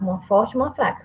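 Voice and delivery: quick classroom recap; quick repeat. Shown as a demonstration. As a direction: rush through the rule again. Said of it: "eram dez sílabas ao todo num verso".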